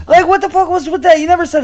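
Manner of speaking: high laughing protest. Real, not acted. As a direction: laugh out the complaint. Laughing mock outrage.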